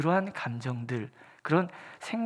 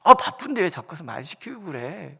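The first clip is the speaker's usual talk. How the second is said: irritated snap; 7 dB louder than usual. Retold or imitated. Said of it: "괜히 막 화를 막 내는 거죠".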